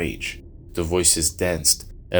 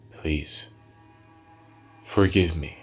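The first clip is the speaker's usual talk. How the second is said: begging; slower than usual. Acted. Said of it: "Nahmun begged".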